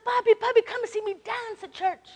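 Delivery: lightly voiced little girl asking; sweet granddaughter. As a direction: invite grandpa to see her dance. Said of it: "the other granddaughter says".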